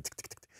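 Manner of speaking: soft tick-tick of fake keys; quiet imitated keyboard clicks; fake typing sounds. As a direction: tap out the typing noise under the breath. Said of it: "like fake typing".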